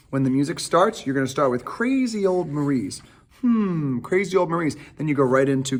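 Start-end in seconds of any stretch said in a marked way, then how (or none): 1.6-4.7 lightly acted, higher-pitched musing; musing character line. Shown as a demonstration. Director quoting the reprise's opening, lightly acted musing. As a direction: draw out the first phrase, then ponder it. Quotes the audition lyric in character.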